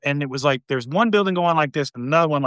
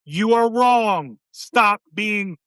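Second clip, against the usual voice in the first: drawn-out, higher sergeant call; sergeant impression; 3 semitones higher, much slower than usual. Sergeant correcting infantry trainees, long drawn-out mock rebuke. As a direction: stretch out each word in mock reprimand. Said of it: "all he would do is go".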